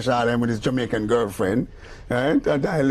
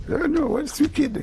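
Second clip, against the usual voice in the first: much higher and slow, stretched-out amazement; amazed exclamation; 12 semitones higher, slower than usual. Retold or imitated. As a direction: retell being stunned by what you heard, drawn out high. Excited reaction retold in quote.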